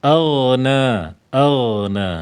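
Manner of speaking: "Aghna" with a thick, heavy throaty ghin; tajwid pronunciation demo. Shown as a demonstration. Teacher models "Aghna" for students, thick ghin. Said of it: "huruf ghin, huruf ghin itu memiliki sifat isti'la".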